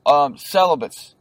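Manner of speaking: "celibates" said slowly, syllable by syllable; slow, deliberate retry at "celibates"; careful slow "celibates". Shown as a demonstration. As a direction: ease the word "celibates" out carefully. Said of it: "Can't even say that word".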